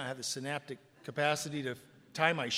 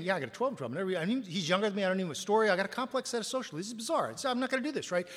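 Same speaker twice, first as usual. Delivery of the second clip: incredulous inner voice; 4 semitones higher, faster than usual. Retold or imitated. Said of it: "I'm thinking".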